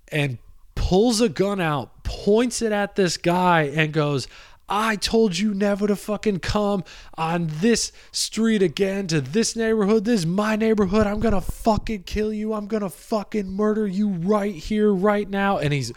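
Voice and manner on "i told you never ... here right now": threatening gunman. Retold or imitated. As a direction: snarl it like a street tough.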